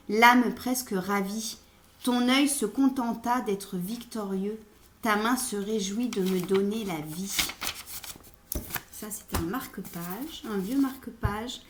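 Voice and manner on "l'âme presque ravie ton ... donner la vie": measured, projected poetry reading; poem recitation. Acted. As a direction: recite the sonnet with lifted line openings. Reads a Ronsard sonnet.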